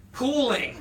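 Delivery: quoting the captain's plan, laughing; laughing quote. Retold or imitated. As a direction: drop the punchline answer giggling. Captain's one-word answer, laughing.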